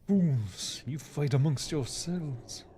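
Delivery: slow, grave sorcerer's pronouncement; Medivh voice. Retold or imitated. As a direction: intone it slowly like an ancient mage. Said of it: "can I even do the Medivh voice anymore".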